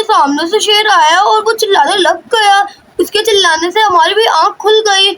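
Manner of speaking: a hint of worried mother and excited children; lightly voiced mother and children. Mother and children talk afterwards. (माँ-बच्चों की हल्की ऊँची आवाज़)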